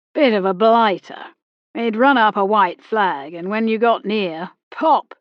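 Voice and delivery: put-on retired captain sure of his old war; old army captain holding forth. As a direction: lecture her like a colonial veteran at the club.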